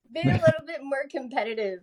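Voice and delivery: half-laughing mock coaching; laughing coach quote. Runner imitating her coach urging competitiveness. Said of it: "my coach is like".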